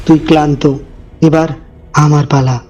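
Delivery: low, dark shadow voice; sinister shadow. Acted. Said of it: "সে বলল".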